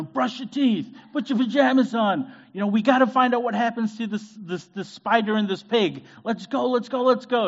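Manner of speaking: high, loud drill-sergeant bedtime orders; a dad playing drill sergeant at bedtime, high and loud; military general. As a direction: bark bedtime orders like a general hurrying the kids. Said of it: "I'm like a, a military general".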